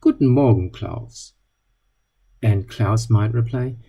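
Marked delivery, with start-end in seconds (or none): 0.0-1.3 friendly. Retold or imitated. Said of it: "in a friendly tone".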